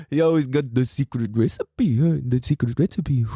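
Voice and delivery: put-on Filipino uncle accent that slips; badly faked Filipino accent; Filipino-accented uncle bragging; attempted Filipino accent. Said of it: "kinda got a Mexican accent on it".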